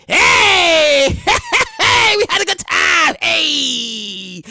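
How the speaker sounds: hyped party yell. Pretend. Partygoer hyping up the room, excited yell. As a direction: get the crowd going.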